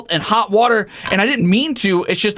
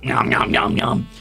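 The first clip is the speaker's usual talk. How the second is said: munching noises; 6 semitones lower than usual. Pretend. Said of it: "free munch".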